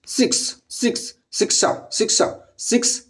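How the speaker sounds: a whispered memory trick; whispered six. Shown as a demonstration. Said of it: "मतलब शिक्षा".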